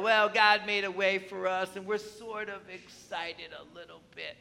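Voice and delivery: trailing off softly, underwhelmed; mock half-hearted. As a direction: let the enthusiasm fizzle out into a soft mumble. Mocking a half-hearted reaction.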